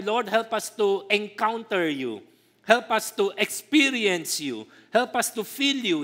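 slow, earnest mock prayer; praying voice. Preacher imitating a worshipper's slow prayer. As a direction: pray it out slowly to the Lord. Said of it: "pag nagpe-pray tayo".

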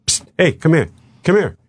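acted-out covert beckoning; furtive beckoning. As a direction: call someone over on the sly. Agent furtively calls him over.

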